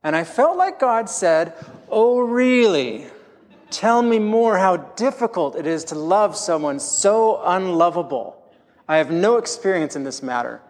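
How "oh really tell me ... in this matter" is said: lightly voiced God teasing the speaker; sarcastic God. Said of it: "God is very sarcastic".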